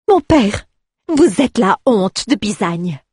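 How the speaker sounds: high, loud, slow reproach; daughter's indignant outburst, high and loud; outraged daughter. Acted. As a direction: scold her father to his face. Daughter confronts her drunk father.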